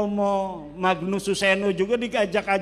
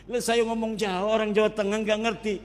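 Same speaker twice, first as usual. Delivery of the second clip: laughing; 2 semitones higher, faster than usual. Real, not acted. Preacher laughing at how nobody understands his Javanese. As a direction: chuckle as you admit it.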